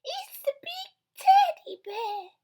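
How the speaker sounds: put-on high baby whisper; Baby Blair whisper. Baby Blair whispering about the broken chair. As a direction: whisper it like a little one. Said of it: "said Baby Blair".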